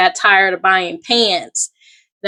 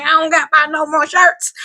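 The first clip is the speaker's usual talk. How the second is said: laughing boast; 7 semitones higher than usual. Retold or imitated. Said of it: "I'm thinking".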